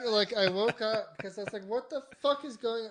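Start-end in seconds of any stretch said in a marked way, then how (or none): 1.7-2.9 high-pitched, exasperated re-enactment; retold anger. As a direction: act out angry confusion on waking. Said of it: "I was, like, angry".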